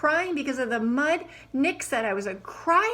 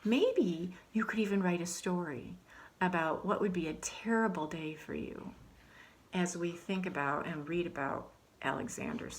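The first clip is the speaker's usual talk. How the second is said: whispered aside; 3 semitones lower, 6 dB quieter than usual. Acted. Teacher whispers aside to kids.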